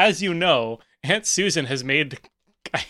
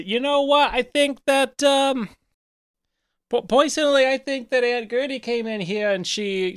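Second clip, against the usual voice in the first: high-pitched, huffy auntie voice; Aunt Susan; 8 semitones higher than usual. Acted. Aunt blaming Gertie to the nephew, huffy. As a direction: accuse in a put-on high voice, stammering a little. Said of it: "And I just kinda say".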